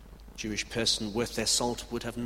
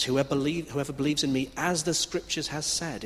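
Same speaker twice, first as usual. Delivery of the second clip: louder, raised declaration; loud proclamation; 4 semitones higher, 6 dB louder than usual. Retold or imitated. Jesus calling out to the crowd at the feast, loud proclamation. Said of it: "how radical a loud statement".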